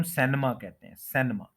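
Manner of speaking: सिनेमा said "SEN-ma" with an "e"; common mispronunciation. Shown as a demonstration. Teacher showing the common spoken form, mispronounced. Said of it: "इस तरह से बोला जाता है".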